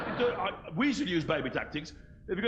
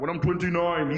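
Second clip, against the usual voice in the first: put-on sulky teen shout; 4 dB louder than usual.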